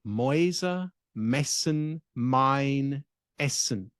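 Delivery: "Mäuse messen mein Essen" slow, word by word; German speech exercise. Shown as a demonstration. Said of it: "we can also do this in German".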